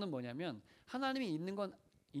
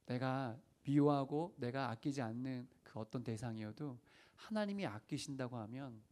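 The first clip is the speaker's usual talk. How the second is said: usual speaking voice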